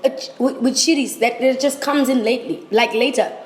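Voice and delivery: high, strained, mouth on fire; struggling to talk through the heat; mouth burning from spicy food. Real, not acted. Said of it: "I can't even speak English anymore".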